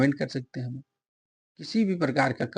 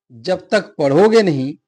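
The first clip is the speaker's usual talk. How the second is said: जब तक पढ़ोगे नहीं pressed out loudly; emphatic stress; 7 dB louder than usual. Shown as a demonstration. Teacher illustrating an emphatic particle, जब तक पढ़ोगे नहीं stressed. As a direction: put loud weight on जब तक पढ़ोगे नहीं. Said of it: "बल डाला कि पढ़ोगे नहीं तो".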